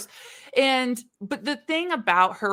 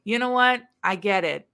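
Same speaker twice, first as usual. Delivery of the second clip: mock repentant plea; 4 dB louder than usual. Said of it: "calling out to a higher being".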